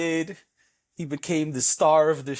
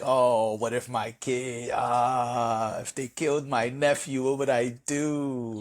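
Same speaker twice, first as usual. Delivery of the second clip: mock anguish; 2 semitones lower, slower than usual. Voicing a weeping parent.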